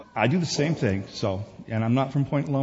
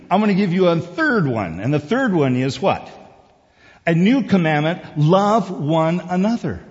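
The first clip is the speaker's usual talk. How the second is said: raised, emphatic preacher delivery; impassioned preaching; 7 semitones higher, 7 dB louder than usual. Real, not acted. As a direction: proclaim the commandment to the congregation. Preaching at full force.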